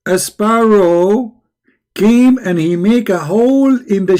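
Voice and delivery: high, slow, drawn-out disbelief; incredulous mocking. Real, not acted. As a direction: stretch it out, mocking the claim. Repeats the claim to mock it.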